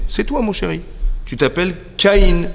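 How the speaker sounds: high, lightly voiced proud mother; doting mother. Mother to her firstborn, doting.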